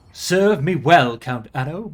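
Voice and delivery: slow, grand pronouncement; regal command. Acted. King accepting Count Anno's homage, slow and regal. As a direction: lord it over him.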